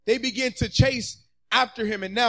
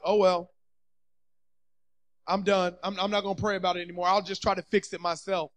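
low, soft resignation; giving up; 5 semitones lower, 6 dB quieter, faster than usual. Acted. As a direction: drop the voice and give up, speeding along. Voices people giving up on prayer.

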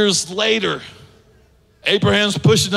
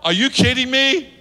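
higher, sharp disbelieving what; Sarah's disbelief; 4 semitones higher than usual. Acted. Sarah hears she'll have a son, startled disbelief. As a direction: act out an old woman's shock. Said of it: "She goes".

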